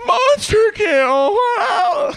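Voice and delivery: high, loud, slow breathy call; hammed-up sultry announcer; breathy sexy lady. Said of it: "really breathy, sexy lady".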